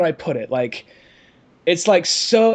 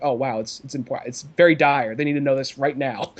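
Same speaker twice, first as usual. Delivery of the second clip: mock dry British accent; 4 semitones lower than usual. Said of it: "a very dry British voice".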